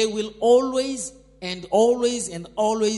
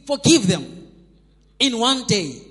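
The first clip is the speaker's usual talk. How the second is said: forceful proclamation, louder on forgive; preaching emphasis; 5 dB louder than usual. Real, not acted. Preacher proclaiming God's word to the congregation, forceful and loud. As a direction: declare it to the church with full force.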